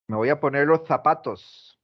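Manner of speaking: "zapatos" starting with a th sound; Madrid ceceo. Shown as a demonstration. Teacher imitating how they say it in Spain, Castilian th. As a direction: say the z of "zapatos" like th in "think". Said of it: "¿Cómo lo dicen ellos?".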